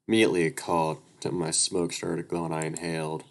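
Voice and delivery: steady read-aloud narrator voice; even storytelling read; story narration. A narrator's reading.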